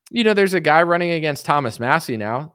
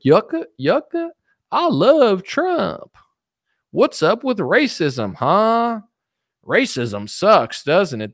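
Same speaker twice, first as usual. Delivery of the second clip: much higher, slow, hammed-up pandering voice; mock Tim Scott; 4 semitones higher, 3 dB louder, slower than usual. Mocking a rival politician's pandering at rallies, high hammy voice. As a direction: parody a politician pandering to the crowd. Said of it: "He'll be like".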